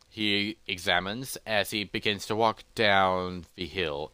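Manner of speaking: low, measured closing narration; deliberate storyteller, fading at the end; story narration. A narrator's reading. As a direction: trail into an ominous ending.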